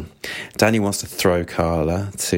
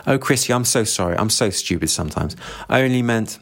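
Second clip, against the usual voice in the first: flustered apology; 3 semitones higher than usual. Acted. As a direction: backpedal in embarrassment. Woman apologises in horror.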